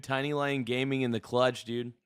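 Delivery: ordinary talk, nothing marked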